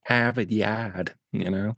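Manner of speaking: slow mock Boston accent; imitating a Boston accent. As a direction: drag out a put-on Boston accent. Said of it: "Your worst accent ever".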